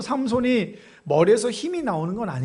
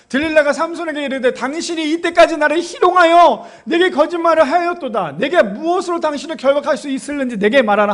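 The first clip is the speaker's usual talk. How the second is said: loud, high accusing recitation; declaimed scripture reading; 7 semitones higher, 8 dB louder than usual. Acted. Preacher voices Delilah confronting Samson, loud and declamatory. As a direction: read it out forcefully as Delilah's reproach.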